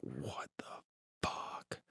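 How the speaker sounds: acted barely audible whisper, drawn out; stunned whisper. Friend laying in the bed hearing commands, stunned whisper. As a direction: breathe it out in frozen disbelief.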